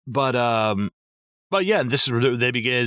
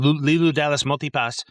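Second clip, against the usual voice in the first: Leeloo impression; 5 semitones higher than usual. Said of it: "I could totally see her being like".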